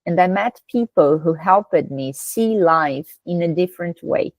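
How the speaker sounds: slow, measured English reading for learners; unhurried teacher's narration, phrase by phrase; model read-aloud. Shown as a demonstration. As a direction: read the passage slowly and clearly for students to shadow.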